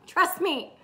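said through a chuckle; laughing. Real, not acted. Coach jokes knowingly about her own past, laughing. Laughing as she repeats herself.

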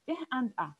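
"eh" and "ah" as separate short vowels; isolated vowel sounds. Shown as a demonstration. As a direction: sound out "eh", then "ah". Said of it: "I'm having two sounds".

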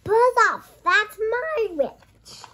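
loud high monster snarl, dragged out at the end; beast voice. Acted. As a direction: shout the beast's threat, slowing on my witch. Child voices the horrible beast.

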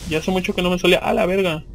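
ordinary talk

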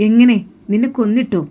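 shocked. Acted. Sir reacts to her death wish.

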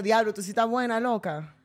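playful Dominican pickup line, drawn out at the end; mock Dominican flirting; Dominican accent. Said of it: "Eh, en dominicano".

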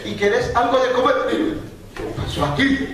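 high, half-whispered, puzzled wife's questions; wife's surprised voice. Retold or imitated. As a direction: play the wife, high and baffled at herself, breaking into a laugh. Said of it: "llega y me dice". (voz aguda de esposa desconcertada, medio susurrada)

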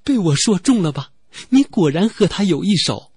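略高声、带着得意的调侃; 轻微装出得意洋洋的揶揄口吻; gloating tease. Acted. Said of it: "拧着你的耳朵说". (拧着情郎耳朵得意地调侃，声音稍高)

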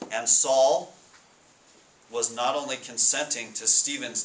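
measured, emphatic Bible reading; scripture reading. Acted. Pastor reads Acts to the congregation, emphatic and measured. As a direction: read the passage to the church with weight.

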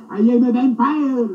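mock echo of a bad vampire. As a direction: parrot the clumsy vampire line. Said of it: "vampires don't go around saying".

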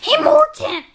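high, eager call to a friend; excited call. Acted. Friend calling Morton to build a fort, excited call. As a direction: call out with a big idea.

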